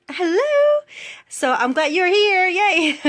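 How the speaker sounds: high, loud, tearful laughing greeting; crying and laughing at once, overwhelmed; laughing through tears. Real, not acted. Vlogger greeting her coach, crying with joy. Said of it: "Oh my God, I'm crying".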